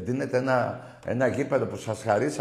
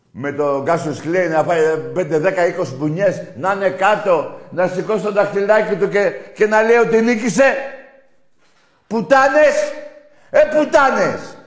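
builds from loud to much higher, louder screaming; rising rage to shout; 6 semitones higher, 8 dB louder than usual. Real, not acted. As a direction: climb into a furious yell. Rant building into insults.

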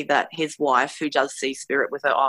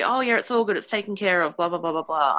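dismissive reassurance; 2 semitones higher, faster than usual. Retold or imitated. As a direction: wave it away, settling into a blah-blah. Mimics team's breezy reassurance.

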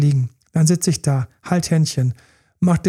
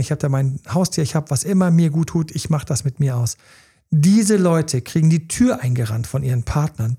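normal talking voice

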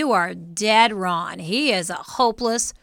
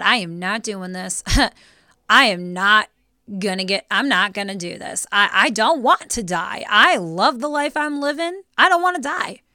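imagined protest; 3 dB louder than usual. Pretend. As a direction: build from firm refusal to pleading. Imagined refusal of Jesus in garden.

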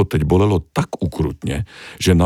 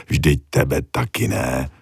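soothing; 3 semitones lower, slower than usual. Acted. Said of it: "chlácholila ho čudla".

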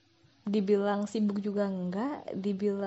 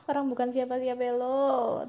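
laughing, higher mocking repeat; 4 semitones higher, 3 dB louder than usual. Real, not acted. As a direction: laugh it out teasingly. (sambil tertawa mengejek)

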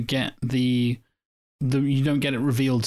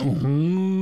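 mock mournful wail; 5 semitones higher than usual. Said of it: "mournful wails".

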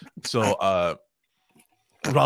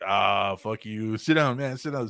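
playful brush-off; slower than usual. Retold or imitated. Retelling Rob Zombie telling the kid to sit down, lightly voiced. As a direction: tease it like a friendly dismissal. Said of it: "he said it just like that".

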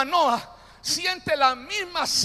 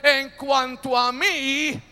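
said loud; 3 dB louder, much slower than usual. Acted. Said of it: "diga fuerte".

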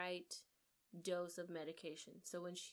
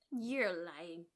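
upset denial; 2 semitones higher, 8 dB louder, much slower than usual. Retold or imitated. Marta denying accusation.

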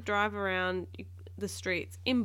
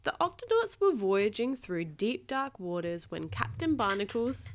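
animated storybook narration, higher pitched; reading to a child; 3 semitones higher than usual. A narrator's reading. Parent reading Octonauts aloud to a child, animated narration. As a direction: draw the listener into the tale. Reads picture book to child.

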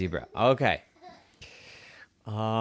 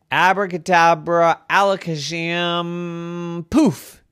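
higher, louder spell chant; magic spell; 6 semitones higher, 5 dB louder, slower than usual. Acted. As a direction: cast it with a flourish. Zebra casting a spell.

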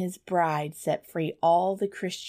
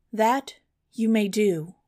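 higher, louder scheming stepmother; wicked stepmother; 4 semitones higher, 5 dB louder than usual. A narrator's reading. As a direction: answer with sly eagerness. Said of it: "said the stepmother".

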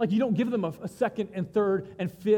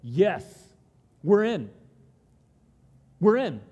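louder, eager yes; eager agreement; 5 dB louder, slower than usual. Retold or imitated. Israel answering God, loud and eager. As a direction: answer like a crowd saying yes. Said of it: "answered together and said".

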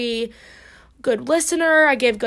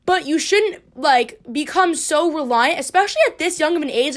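fired-up pep talk; 3 semitones higher, 3 dB louder than usual. Retold or imitated. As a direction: preach independence to her. Pep talk to friend, preaching.

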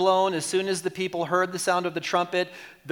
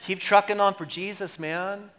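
hippie voice. Shown as a demonstration. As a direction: say it like a chill hippie. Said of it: "Let me say it like a hippie".

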